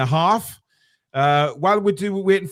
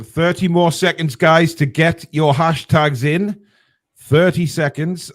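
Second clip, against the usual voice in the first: bingo caller; 5 dB louder than usual. Pretend. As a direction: call it out like bingo night. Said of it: "I could be a bingo caller".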